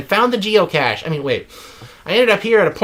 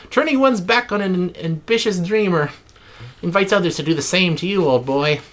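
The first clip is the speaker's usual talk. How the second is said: put-on Australian accent. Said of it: "said in an Australian accent".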